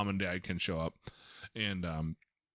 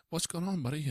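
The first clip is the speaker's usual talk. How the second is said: calm reassuring voice; 7 semitones higher than usual. Retold or imitated. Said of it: "calm my, my".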